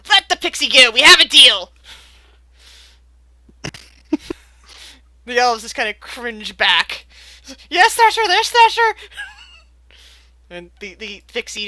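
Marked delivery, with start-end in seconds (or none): 0.1-1.7 loud commanding bellow; reindeer command. Acted. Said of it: "the reindeer turns around and says". 7.7-8.9 high, loud, eager yelping; cringing elves. Acted. Elves cringing, answering reindeer.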